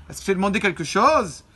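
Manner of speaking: « est-ce que je t'ai demandé quelque chose? » thrown out curtly, as a rebuke; insolent. Shown as a demonstration. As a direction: snap the question back with insolence. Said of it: "elle était un peu insolente". (ton insolent et cassant)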